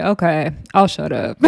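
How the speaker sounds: quiet, laughing through it; laughing quote. Retold or imitated. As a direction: giggle the words out. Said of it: "T T's gonna say".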